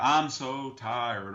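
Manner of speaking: slow, drawn-out fake Southern drawl; imitating Hillary faking a folksy Southern accent; mock Hillary accent. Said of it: "the Hillary accent".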